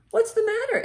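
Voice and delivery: high, loud caring ask; Ellie's concern. Acted. Ellie asking her friend Lucy what is wrong. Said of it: "Ellie asked her friend".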